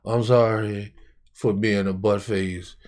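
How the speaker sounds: low, soft, slowing apology; retold apology. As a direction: imitate yourself giving in meekly. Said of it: "I still come apologize like".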